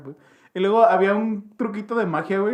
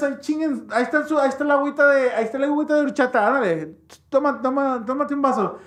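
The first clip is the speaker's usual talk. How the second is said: mock drunk adult; 8 semitones higher than usual. Drunk adults pushing drinks on kids.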